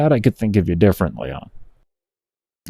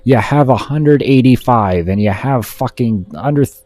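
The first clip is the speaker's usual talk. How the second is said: self-berating; 2 semitones higher than usual. Real, not acted. Berating himself after mistake.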